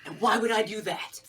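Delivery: questioning back in an impersonated voice; Jack. Acted. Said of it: "That's my Jack impression".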